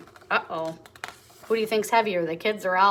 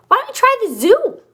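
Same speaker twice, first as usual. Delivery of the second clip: high, bright little mouse voice, louder; squeaky little mouse; 13 semitones higher, 8 dB louder than usual. Acted. Mouse suggesting the zoo to Oliver, high little voice. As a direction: play the tiny helpful mouse.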